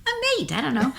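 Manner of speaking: put-on high innocent kid whine; little kid voice. Scolded by dad over chickens, a high kid whine. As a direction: answer dad like a bewildered eight-year-old. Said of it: "I'm like".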